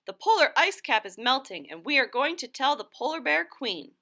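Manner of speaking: eager birds repeating their news; lightly voiced chorus; birds answering. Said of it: "replied Loony Little".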